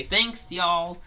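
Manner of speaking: 1 cheerful thanks. Retold or imitated. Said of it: "They say".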